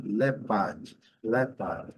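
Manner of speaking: British English "leopard" with silent R; British pronunciation. Shown as a demonstration. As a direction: drop the R in "leopard", stress the first syllable. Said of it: "letra R no inglês britânico não é pronunciada".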